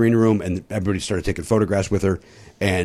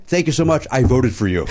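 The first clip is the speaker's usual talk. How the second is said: sheepish retold reply. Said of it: "What did I say back to her?".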